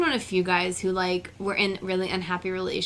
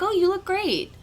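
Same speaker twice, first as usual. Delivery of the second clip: innocent compliment; 10 semitones higher than usual. Acted. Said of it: "but in a creepy way. Not like".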